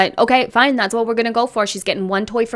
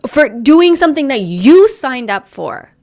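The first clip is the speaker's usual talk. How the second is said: indignant anger, louder; heated rant; 4 dB louder than usual. Real, not acted. Tearing into the mother over her video, heated and loud. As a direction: build the outrage line by line.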